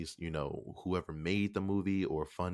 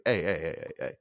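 loud, rapid-fire protest; Samuel L. Jackson objecting; 6 dB louder, faster than usual. Retold or imitated. Retelling an actor objecting to rappers getting roles, loud protest. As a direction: break in loudly to halt everything. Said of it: "Samuel L. Jackson was like".

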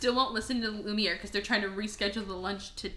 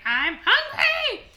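high, loud, drawn-out yell; hammed-up hungry roar; mock loud yell; 13 semitones higher, 5 dB louder, much slower than usual. Beast demanding lunch, hammed-up loud yell. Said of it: "He yells so loud for no reason".

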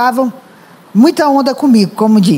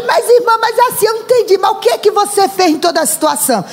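high, quick questioning church sister; mock puzzled sister; 6 semitones higher, faster than usual. Preacher imitating a puzzled church sister, pitched high.

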